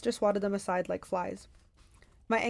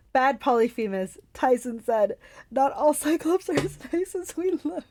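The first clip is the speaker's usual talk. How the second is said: put-on a higher, simple childlike giant; Tyson's voice; 4 semitones higher, 5 dB louder than usual. Tyson scolding Polyphemus, childlike giant voice. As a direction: scold the monster gently.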